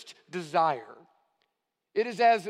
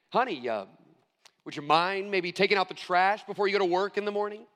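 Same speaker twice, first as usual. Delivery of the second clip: coaxing, careful request that hints at more; hesitant, tentative ask; faster than usual. Shown as a demonstration. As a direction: ask timidly, hedging with uh and maybe. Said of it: "Those are two totally different meanings".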